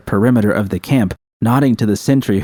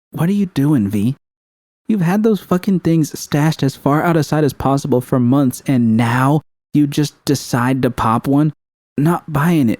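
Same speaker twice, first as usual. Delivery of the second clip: angry confrontation; 6 semitones higher than usual. Acted. Judy confronting V angrily.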